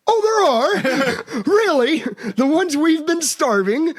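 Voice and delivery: high, slow, hammed-up disbelief; sarcastic high falsetto gasp of fake surprise; sarcastic mock surprise. Mock reply to the news.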